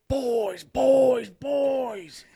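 lightly voiced Bubbles calling; singsong call of boys. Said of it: "Can you do Bubbles from Trailer Park Boys?".

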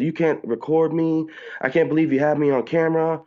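high-pitched mimicked complaint; imitated indignant woman. Woman objecting to being filmed, high mock indignation.

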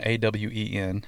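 A W E N spelled slowly, letter by letter. Shown as a demonstration. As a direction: spell out A W E N one letter at a time. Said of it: "but Awen".

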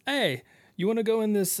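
put-on a light Jamaican accent on the guide; loosely Jamaican-accented tour guide. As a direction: slip into a mild Jamaican lilt. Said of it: "I don't know why I'm making him sound Jamaican".

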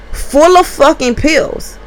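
slow incredulous emphasis; slow stressed outrage. Real, not acted. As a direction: drag out full of fucking pills.

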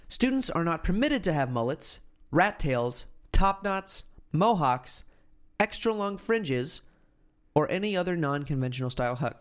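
measured, emphatic read-aloud voice; news article read. Acted. Podcast host reading banned haircuts to co-host, article read-aloud. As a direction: read out the list item by item, pitch lifting. Reads school rules aloud.

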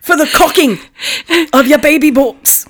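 grand, high showman narrator; over-the-top celebrity narrator; Robin Leach narrating. Retold or imitated. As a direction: announce it like a lavish TV host. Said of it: "I want Robin Leach to narrate".

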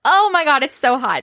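high, loud burst of excitement; gushing excitement. Real, not acted. Reader gushing over a hot hookup scene, excited. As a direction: gush it, pitched right up.

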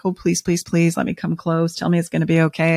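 lightly imitated begging, a little hurried; retold pleading. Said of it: "like, begging and pleading".

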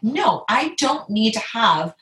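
firm, emphatic self-talk, pitch a bit lifted; measured, insistent declaration; determination. Retold or imitated. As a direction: re-enact resolve, leaning on key words. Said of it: "just determination of".

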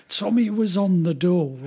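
lightly done Geordie singer impression; a hint of Geordie on the lyric; Geordie accent. Host retelling a singer's song parody, light Geordie accent. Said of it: "in his best Geordie accent".

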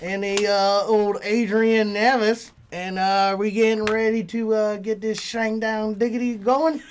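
light put-on Southern twang; country accent. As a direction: drawl the intro like a country boy. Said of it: "This week is, like, what, like, country?".

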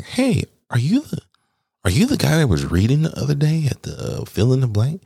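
high, eager voice of a coworker in the hall; gushing coworker. Retold or imitated. A coworker stopping him in the hallway, high and eager. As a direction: play the excited coworker who recognizes him.

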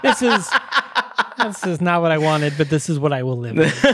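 chuckling through the words; laughing. Real, not acted. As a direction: laugh while you say it. Repeating a quote while laughing.

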